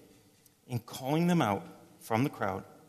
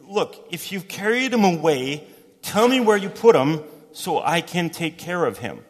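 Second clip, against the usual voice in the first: pleading; 4 semitones higher, 5 dB louder than usual. Acted. Mary pleads with gardener.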